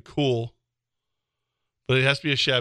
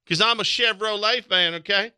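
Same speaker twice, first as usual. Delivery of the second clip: redneck fan voice; 7 semitones higher than usual. Pretend.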